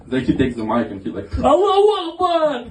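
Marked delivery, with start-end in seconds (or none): 1.4-2.7 higher, hammed-up shout into a mic; mock shout. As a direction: call it out like a bellowed battle cry. Friend shouts into preacher's mic.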